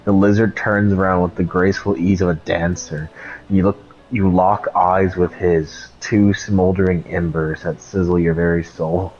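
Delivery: mock romantic reading. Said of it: "sound like it's supposed to be romantic".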